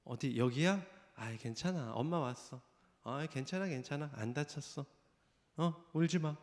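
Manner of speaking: put-on quiet, unhurried comfort to a hurt child; calm soothing mother. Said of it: "너무도 차분하게". (아이를 달래는 차분하고 조용한 엄마 목소리)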